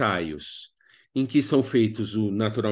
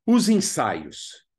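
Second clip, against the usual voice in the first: drawn-out title; 4 semitones higher, much slower than usual. Acted. Announces new topic.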